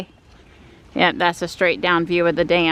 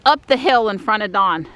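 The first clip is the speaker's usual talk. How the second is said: UP pitched higher and punched; stress on up; 3 semitones higher than usual. Real, not acted. Vlogger telling partner about the climb, stress on up. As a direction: lean hard on the word up. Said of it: "the emphasis on the word up".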